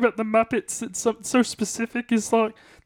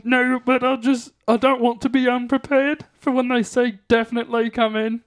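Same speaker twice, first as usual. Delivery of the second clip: plummy upper-class frog puppet voice; a frog puppet speaking like English gentry; posh Kermit voice. Pretend. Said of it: "are you doing a Kermit voice".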